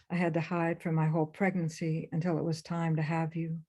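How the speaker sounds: whispered confession through tears; barely voiced, ashamed and weeping; tearful whisper. Sobbing mother confessing hidden pregnancy to daughter, whispered. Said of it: "She's sobbing again".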